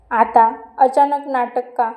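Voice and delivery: loud, slow, drawn-out shout; loud angry uncle. A narrator's reading. Uncle shouting at the father, loud and slow. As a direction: hurl the question slowly and loudly. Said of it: "मामा मोठ्या आवाजात म्हणाला".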